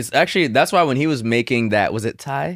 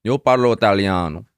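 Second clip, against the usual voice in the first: Italian accent; 4 dB louder than usual. Shown as a demonstration. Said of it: "Let me hear it".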